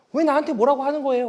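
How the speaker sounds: put-on high, loud, annoyed teen yelling back.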